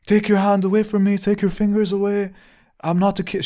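put-on very high, loud, offended old lady voice; old woman keeps ranting at the passerby, high indignant mimicry; shrill indignant old woman. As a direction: mimic her outrage as he walks off.

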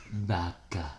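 "vodka" slowly split as VAH-kuh, no D; low, deliberate "vodka" without its D. Shown as a demonstration. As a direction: spell out VAH-kuh for listeners. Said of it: "No D".

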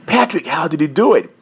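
amazed question with a lift at the end; ecstatic coach, retold. Coach amazed wrestler made weight, mildly ecstatic. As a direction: imitate a coach's delighted disbelief. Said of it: "He was so ecstatic".

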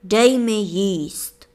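slow, loud order; commanding. A narrator's reading. Sorcerer commands the princess to feed him, slow and loud. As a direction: bark the demand slowly. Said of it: "poroučel".

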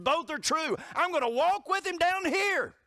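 loud, high preacher's whoop; fiery preaching. Acted. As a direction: preach it out with full force. Preaching at full force.

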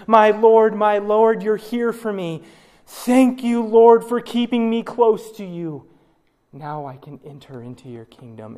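high, glad greeting; joyful thanks. Pretend. Believer greeting the Lord, high and joyful. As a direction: thank him with relief and joy.

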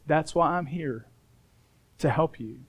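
soft, tender promise; gentle reassurance. Acted. Holy Spirit answering a believer, gentle reassurance. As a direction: reassure quietly.

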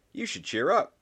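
high, bright cheerful twin; chipper twin. Acted. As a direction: perk it up, sing-song high. Twin voiced, much higher.

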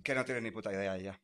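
quiet, away from the microphone; far from mic. Real, not acted. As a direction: speak from a step back from the mic. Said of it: "Acércate al micro".

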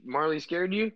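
dad checking on his upset daughter, tender. Real, not acted. Dad comforting scared little daughter.

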